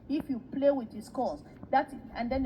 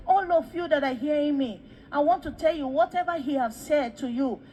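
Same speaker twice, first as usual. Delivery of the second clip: raised, insistent address; public appeal; 3 semitones higher, 4 dB louder than usual. Retold or imitated. Daddy standing to address all who hear him, public appeal. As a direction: appeal out loud to all listeners.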